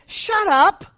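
loud, high, blunt shut up; defiant "shut up". Pretend. Preacher telling the congregation to silence naysayers, defiant and loud. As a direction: slam the door on doubt. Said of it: "look at them in the eye and say".

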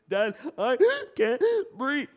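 put-on high, loud panicked child; frightened child. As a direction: plead like a boy who can't breathe. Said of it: "he goes".

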